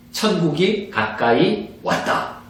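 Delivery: 천국이 가까이 왔다 said slowly and evenly, words spaced out; slow, measured 천국이 가까이 왔다; slow proclamation. Shown as a demonstration. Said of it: "이렇게 전하라는 거예요".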